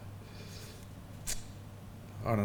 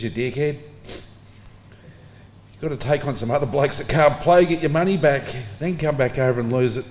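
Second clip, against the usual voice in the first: dad's telling-off, louder and higher, half-laughing; retold telling-off; 3 semitones higher, 5 dB louder than usual. Dad scolding his son for losing all his money, louder mock telling-off. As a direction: scold him like a dad who thinks he's a dickhead.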